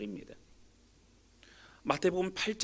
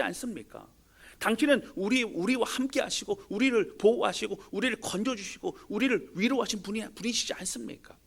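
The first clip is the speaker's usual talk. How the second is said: higher, urgent pleading prayer; pleading disciples; 5 semitones higher than usual. Acted. Disciples plead with Jesus in the storm, higher urgent plea. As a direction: beg him as frightened disciples.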